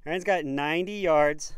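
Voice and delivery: panting after running up the hill; winded, gasping between words; out of breath. Real, not acted. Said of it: "I'm out of breath for this".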